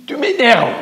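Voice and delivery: high, loud furious shout; angry yell. A narrator's reading. Girl furious at the echo, shouting. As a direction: yell your annoyance.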